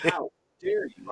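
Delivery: high, slow, theatrical "How dare you?" with "dare" drawn out; hammed-up supervillain indignation at a cabinet handle; mock outrage. Caught on the cabinet handle, he mock-rages at it, high and slow. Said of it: "I turn into Doctor Doom".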